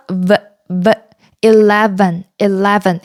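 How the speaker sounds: isolated "V", then "eleven" with a careful V; V pronunciation demo. Shown as a demonstration. Teacher drilling eleven for learners, careful V pronunciation. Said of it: "아랫입술이 윗니와 붙어야 돼요".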